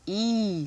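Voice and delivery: E as a pure "ee"; vowel sound demo. Shown as a demonstration. Teacher naming a vowel for listeners, E said as "ee". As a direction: hold E as the long "ee" of tree. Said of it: "I'll say a vowel sound".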